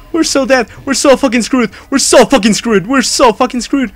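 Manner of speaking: high-pitched doomed repetition; panicked despair. Real, not acted. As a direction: repeat it as panic takes over. Doomed in horror game.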